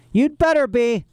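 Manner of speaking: high rasping threat; menacing villain. Acted. Olaf threatening the children in the kitchen, rasping menace. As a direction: snarl it like a villain.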